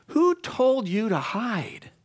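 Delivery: high, slow, pained plea; aching question. Acted. Preacher voicing God asking Adam why he hides, pained. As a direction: draw it out, hurting for them. God's questions, voiced with feeling.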